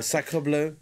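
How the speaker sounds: mock English tourist exclaiming; broken french. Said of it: "avec l'accent".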